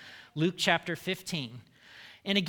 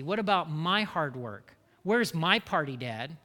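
resentful complaint. Acted. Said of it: "he also says".

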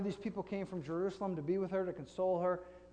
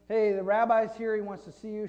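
loud, raised-pitch "Hey" to get attention; calling someone over; 5 semitones higher, 9 dB louder than usual. Retold or imitated. Martha pulls Mary aside from the mourners, calling out. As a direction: call out the news urgently, then ease off.

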